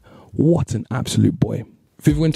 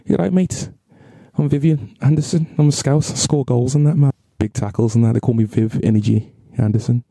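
Vivian Anderson; 2 semitones higher than usual. Acted. Vlogger imagines the footballer introducing himself, mock Scouse accent. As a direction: put on a jokey, rough-and-ready Scouse accent. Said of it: "What about Viv was a Scouse?".

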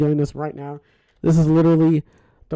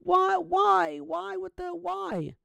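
exasperated dismay; 14 semitones higher, much slower than usual. Real, not acted. Streamer baffled by the audio test, high exasperated dismay. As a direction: plead upward, trailing off in volume.

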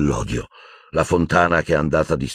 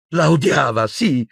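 voice breaking; 10 semitones higher than usual. A narrator's reading. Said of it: "con voce spezzata".

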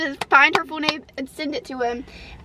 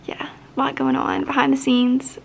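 whispering. Real, not acted. Confides quietly.

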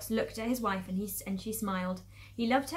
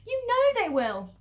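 high, loud, drawn-out wail; hammed-up tearful insistence; acted sobbing plea; 13 semitones higher, 8 dB louder, slower than usual. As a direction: wail it slowly as an upset wife. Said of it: "sobbed Missus Fox".

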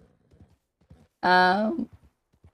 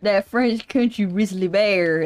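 mock French country drawl. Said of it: "country riz".

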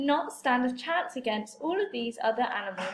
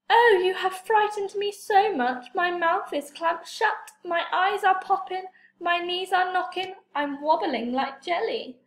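mock fright; 4 semitones higher than usual. Toad pretends to be frightened.

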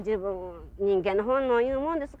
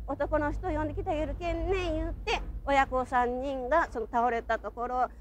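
crying. Real, not acted. Survivor breaks down recalling mother.

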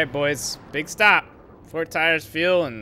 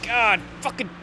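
real fury, higher and louder throughout; furious rant; 7 semitones higher, 6 dB louder than usual. Real, not acted. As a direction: vow revenge at the top of your voice. Ranting at rival drivers.

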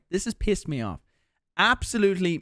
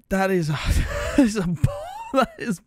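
incredulous rage; 7 semitones higher than usual. Real, not acted. Streamer sputtering with laughter at a bad Call of Duty take.

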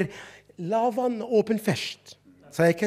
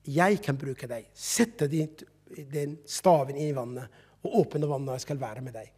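gentle voice of God; 4 semitones lower, 5 dB quieter than usual. Acted. God speaks to Moses.

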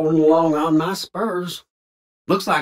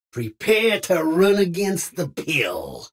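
put-on folksy Old West cowpoke voice, drawled twang; old cowboy. Game cowboy barking lines at strangers and outlaws, folksy twang. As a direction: play a grizzled frontier cowboy talking.

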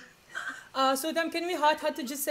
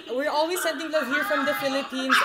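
laughing. Real, not acted. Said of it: "laughs while asking idol".

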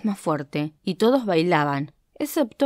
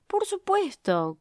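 shouting; 11 semitones higher, 4 dB quieter, slower than usual. Acted.

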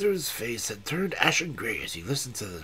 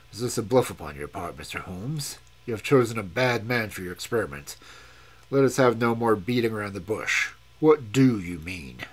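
impatient, lower-voiced challenge; lightly voiced Sterndale; 3 semitones lower, 4 dB louder than usual. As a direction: explorer demanding Holmes explain, a hint of menace. Sterndale demands an answer.

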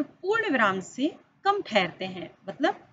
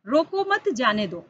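रोको मत, जाने दो as one running phrase; no pause marked. Shown as a demonstration. Teacher reads an unpunctuated example to pupils, no pause marked. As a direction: run "रोको मत जाने दो" together without a comma. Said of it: "यहाँ पर किसी भी तरह का विराम चिन्ह का प्रयोग नहीं किया".

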